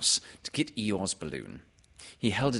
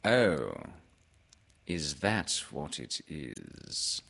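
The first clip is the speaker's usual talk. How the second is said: Owl; 4 semitones lower, much slower than usual. Acted. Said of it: "said Owl".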